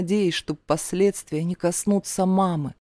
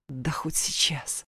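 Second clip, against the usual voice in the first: defiant whisper, slow and much softer; whispered snap; 3 semitones lower, 8 dB quieter, slower than usual. A narrator's reading. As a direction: snap back under her breath. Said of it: "огрызнулась я".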